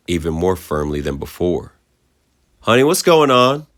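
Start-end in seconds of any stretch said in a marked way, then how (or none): 2.6-3.7 high, louder anxious mother; worried mother. A narrator's reading. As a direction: ask through the door, worried. Mother asks through door.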